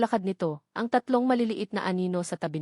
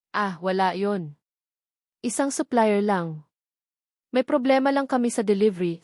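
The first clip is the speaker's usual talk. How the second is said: forced smile. Acted. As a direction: play it easy while hiding something. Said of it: "pilit na ngumiti".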